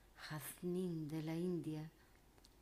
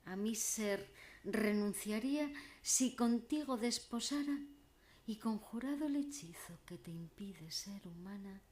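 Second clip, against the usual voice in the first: elegiac declamation. Acted. Troubadour begging his beloved Siana to marry him, elegiac declamation. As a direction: declaim it as a lovelorn troubadour's entreaty. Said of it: "declamando poesía elegiaca".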